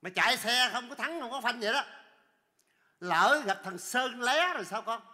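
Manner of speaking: lên giọng, to tiếng vặn hỏi; mắng kiểu hài, giọng cao; trách mắng hoảng hốt. Acted. Khách trách xe không phanh. (la rầy người chạy xe)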